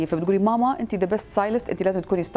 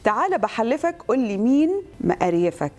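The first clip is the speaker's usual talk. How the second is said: Egyptian dialect plea; lightly performed Egyptian delivery; Egyptian Arabic accent; 2 semitones higher than usual. Shown as a demonstration. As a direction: ask it in Cairene colloquial. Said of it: "باكبر عدد لهجات تقدري".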